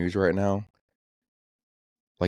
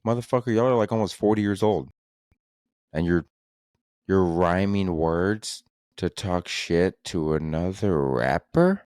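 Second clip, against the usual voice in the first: ranting at rappers. Retold or imitated. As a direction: scold them like grown men acting childish. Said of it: "I'm like".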